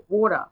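Aussie water, wora; Australian water. Shown as a demonstration. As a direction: say water half-American, half-British, wora. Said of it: "kalau Australian dia half-half".

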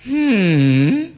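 long, high "hmm" of mock disappointment; drawn-out disappointed hmm; disappointed hum. Shown as a demonstration. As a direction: hum it as if badly let down. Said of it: "Penuh kekecewaan itu".

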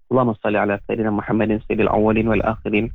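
steady, devout recitation of a closing prayer. Acted. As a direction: recite it like a preacher praying for the congregation. (doa penutup yang khusyuk)

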